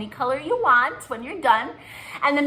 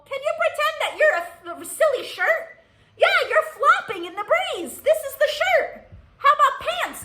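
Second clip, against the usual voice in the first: laughing; 13 semitones higher than usual. Real, not acted. Silly motions with kids.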